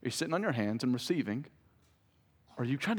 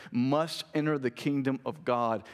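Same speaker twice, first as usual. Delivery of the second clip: slow, deliberate reading leaning on "must"; weight "must", then read on slowly; stress on must. Shown as a demonstration. Preacher reading the verse aloud, emphasis on "must". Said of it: "emphasize the word must there".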